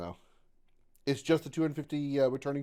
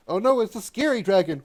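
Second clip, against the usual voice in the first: mock scared; 9 semitones higher, 7 dB louder than usual. Mock fear at dragon.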